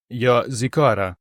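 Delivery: faint, feeble voice of a weakened man; barely has strength to say it; weak voice. A narrator's reading. Young cosmonaut coming round tells the girls he is from Ikar, weakly. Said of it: "кволим голосом промовив юнак".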